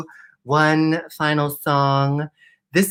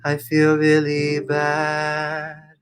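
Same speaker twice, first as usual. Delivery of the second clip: reading the bully's message; 2 semitones lower than usual. Retold or imitated. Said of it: "This is what he said".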